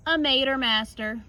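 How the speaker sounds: ordinary delivery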